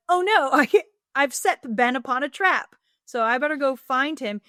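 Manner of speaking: put-on high, loud girlish panic; mock panic. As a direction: play the frantic little girl. Felicity panics, voiced in retelling.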